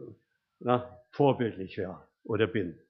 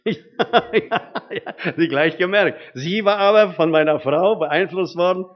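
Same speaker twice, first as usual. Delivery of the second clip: laughing, higher and louder; 5 semitones higher, 7 dB louder than usual. Real, not acted. Preacher laughing at his daughter's remark, then laughing on. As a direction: laugh through the punchline of the story.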